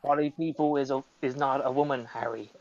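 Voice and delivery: Hagrid impression. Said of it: "a transphobic Hagrid".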